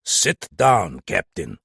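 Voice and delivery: curt order to the agitated captain; sharp. Acted. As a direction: cut him off before he erupts. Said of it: "Benkelin's voice became sharp".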